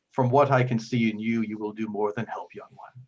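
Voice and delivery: lightly voiced earnest cleric; firm opening, softening to a close; kindly Father figure. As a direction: reassure the young one with gentle gravity. Game master voices Father Geno.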